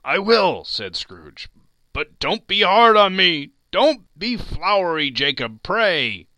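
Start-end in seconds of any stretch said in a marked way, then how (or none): 0.0-0.6 high, loud, hasty assent; alarmed agreement. Acted. Scrooge hastily answers the crying ghost. 1.9-6.3 high, loud, frightened entreaty; agitated, raised-pitch plea; pleading. Acted. Scrooge begs the ghost for mercy.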